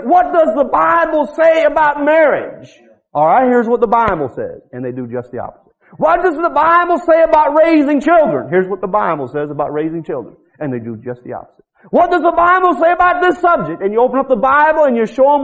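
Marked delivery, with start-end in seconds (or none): 0.0-2.7 higher, slow eager question; a lightly voiced questioner; mock asker. 6.0-8.5 a lightly voiced questioner; mock asker. 11.9-13.8 a lightly voiced questioner; mock asker.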